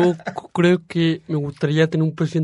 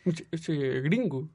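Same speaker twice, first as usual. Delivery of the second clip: slow, softer murmur; quiet aside; 10 dB quieter, slower than usual. Retold or imitated. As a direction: say it slowly under the breath. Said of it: "toda la gente cree que soy gringo".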